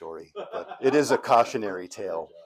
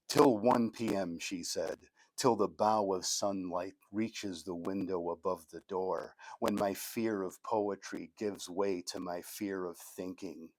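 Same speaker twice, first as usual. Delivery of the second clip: measured recital, easing down at phrase ends; poetry reading; 4 dB quieter, slower than usual. Acted. Poet reading Sleeping In to an audience, poetry reading. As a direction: read it out in short, deliberate phrases. Reads own poem aloud.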